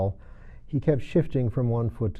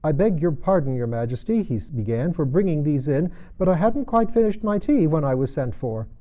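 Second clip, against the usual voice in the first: Hatter voice; 4 semitones higher, 4 dB louder than usual. Acted. Hatter character voice.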